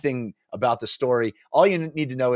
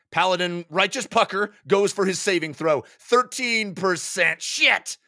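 higher, ending in a curse; dismayed player; 9 semitones higher than usual. Acted. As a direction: react to a bad roll. Paladin player fails roll.

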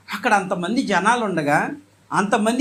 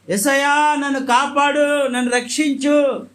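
mild retold cry; 4 semitones higher than usual. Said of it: "దేవుని గట్టిగా కేకలు వేస్తున్నాడు".

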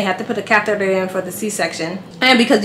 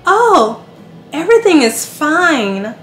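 mock breezy doctor; 6 semitones higher, slower than usual. Mocking the doctor.

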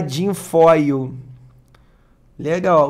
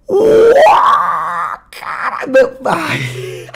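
excited shout; 8 semitones higher, much slower than usual. Real, not acted. Unboxing a Kozilek foil for viewers, amazed shouting. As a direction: yell in disbelief, then melt. Reacting to the rare card.

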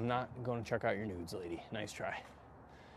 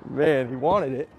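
laughing disbelief; 3 semitones higher, 11 dB louder, slower than usual. Real, not acted. Laughing after the broken shot.

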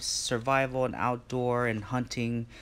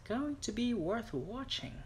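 put-on higher, playful British accent; 11 semitones higher, 4 dB quieter than usual. Vlogger hyping his knife video to viewers, in a mock British accent. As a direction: put on a posh-leaning British accent to hype it up. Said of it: "I don't know why I did a British accent there".

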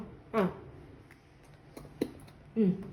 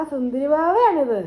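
admiring coo; much slower than usual. Real, not acted. Admiring the dressed-up little child. (കൊഞ്ചിച്ച്, നീട്ടിയുള്ള അഭിനന്ദനം)

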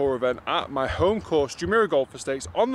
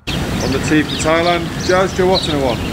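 loud announcement; 6 dB louder than usual. Shown as a demonstration. Louder starter call.

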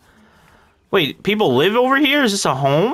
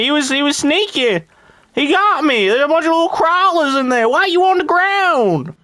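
put-on Farmer Randall accent. Gamer in character as a country farmer. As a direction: play a rural farmer calling everyone feller.

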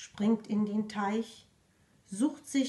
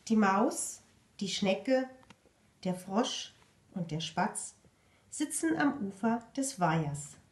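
lively picture book narration; reading to children. A narrator's reading. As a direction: read it to little ones. Reads picture book aloud.

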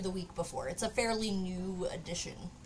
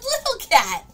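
loud, high mock yell; imitated yell; 12 semitones higher, 11 dB louder than usual. Retelling greeting the grown kitten, high mock yell. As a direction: yell it high, breaking into a laugh. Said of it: "I yelled".

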